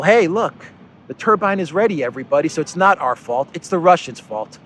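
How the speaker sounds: hammed-up mock of a politician's PR pitch; mock announcement. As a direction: send up Olaf Scholz proclaiming the turbine is fine. Mocking Scholz's PR message.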